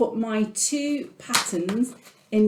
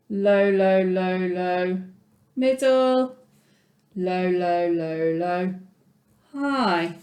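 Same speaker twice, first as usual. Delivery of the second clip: teacher demonstrating the ostinato's pitches; singsong pitch demo. Shown as a demonstration. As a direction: voice the melody's pitch levels for the class. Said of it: "this is my lowest pitch".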